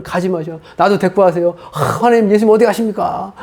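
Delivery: imitated wailing appeal; retold tearful plea. Preacher retelling calling after Jesus, mock tearful plea. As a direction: act out begging someone not to leave. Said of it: "막 울면서 그 얘기하고 있고".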